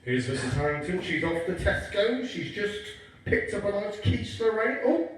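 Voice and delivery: lightly voiced spy-camera commentary; spy narration. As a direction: narrate her like a documentary spy. Mock surveillance commentary on mum.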